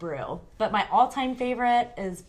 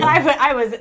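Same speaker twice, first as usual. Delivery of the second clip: laughing; 5 semitones higher, 11 dB louder than usual. Real, not acted. Giggling mid-sentence.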